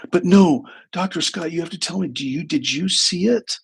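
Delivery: mild imitation of a desperate client; urgent pleading. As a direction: press him for the answer like you need it. Client begs therapist for the truth.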